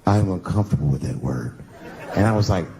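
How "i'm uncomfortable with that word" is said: deep mock prim voice, lower; a stiff, prim mock of her; lower, prim mock complaint; mocking the woman. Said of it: "She said".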